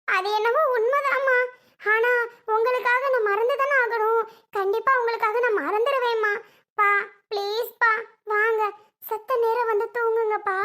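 acted crying daughter, understated; upset, gently begging; tearful pleading. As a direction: hold back tears while coaxing father. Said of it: "நீ ஏன் அழுகுற?".

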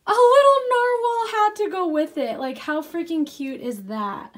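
high, loud burst of delight; excited gushing. Real, not acted. Showing viewers the matching narwhal hat, excited gushing. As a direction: squeal over how adorable it is.

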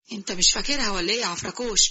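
a cheeky jinn teasing; genie voice. Acted.

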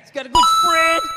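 loud, punched-out Southern redneck line; redneck catchphrase. Acted. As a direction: boast it loudly like a redneck gun seller. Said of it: "He kept saying that".

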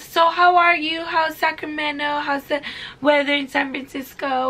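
high-pitched chatty nurse; distracting nurse. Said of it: "make me get distracted from the anesthesia".

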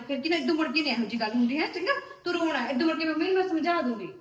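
light laughter through fast comforting words; laughing reassurance. Real, not acted. Sister-in-law cheering up the crying girl, laughing. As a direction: laugh her out of the tears.

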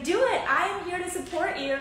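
high, emphatic cheering-on; imitating an eager supporter; retold encouragement. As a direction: urge her on, punching the first words. Retelling friend's urging to go ahead.

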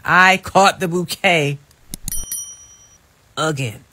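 slow, loud, punching CAUGHT; loud, drawn-out brag; proud boast. Real, not acted. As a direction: proclaim I caught the bouquet with pride. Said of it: "boasting, repeated in a whisper".

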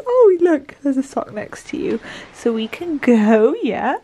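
high, bright pet-talk voice; talking to a dog. Acted. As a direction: coax the puppy along sweetly.

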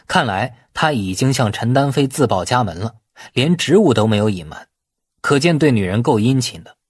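plain reading voice

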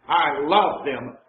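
slow and tender, "love" leaned on. Shown as a demonstration. Preacher explains the word, tenderly slow. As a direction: say it slowly, as if meaning it. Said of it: "in a loving way".

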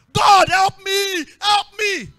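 loud, high, slow, drawn-out plea; desperate cry for help. Acted. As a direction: wail to heaven as a pleading mother. Re-enacts the mother's cry to God.

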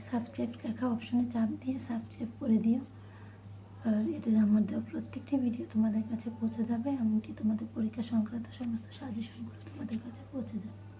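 strained, hoarse whisper. Real, not acted. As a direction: push words through a sore throat. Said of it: "গলা ভাঙা নিয়েও কষ্ট করে".

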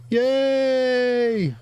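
high, loud cheer; excited cheer. Real, not acted. Player cheering as his new nation is founded, excited. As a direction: cheer the win.

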